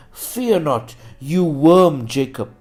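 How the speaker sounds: declamatory Bible reading with punched words; scripture proclamation. Acted. Preacher reads Isaiah's promise to Israel, scripture proclamation. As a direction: proclaim the prophecy in weighted phrases.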